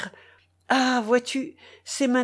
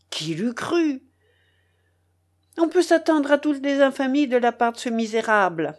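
raised, indignant outburst against a scoundrel; indignant cry; 5 semitones higher than usual. A narrator's reading. Midzinchikov denouncing the fugitive, indignant cry. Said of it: "cria Midzinchikov avec indignation".

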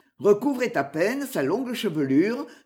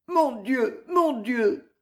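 pained murmur; 5 semitones higher, much slower than usual. A narrator's reading. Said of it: "murmura douloureusement la jeune fille".

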